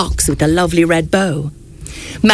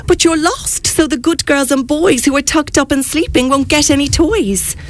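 higher, small mousy voice; squeaked; 6 semitones higher than usual. Acted. Mouse worries that the children will get no toys, squeaking higher. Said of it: "he squeaked".

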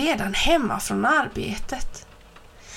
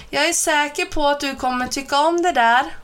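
calling out; 5 semitones higher, 3 dB louder, faster than usual. A narrator's reading. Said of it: "ropade hans mamma".

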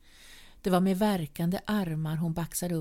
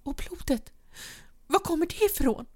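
urgent demand; 10 semitones higher than usual. A narrator's reading. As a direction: force the question out. Wife demands about the blood.

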